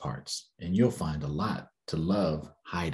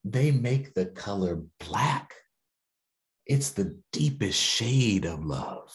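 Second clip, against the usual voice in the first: gentle voice; slower than usual. Acted. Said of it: "the voice said".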